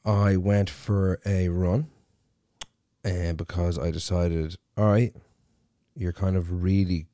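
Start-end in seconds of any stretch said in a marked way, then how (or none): 0.0-1.9 slow emphatic. Acted. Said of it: "No, um".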